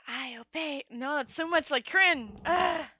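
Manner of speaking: a tentative dragon voice. Pretend. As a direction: try out a dragon voice. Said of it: "I don't even know what to do for a dragon voice".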